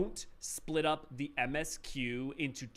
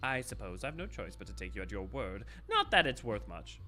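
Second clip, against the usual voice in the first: twee villain voice. Acted. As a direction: relish the charade as a villain. Voicing the villain character.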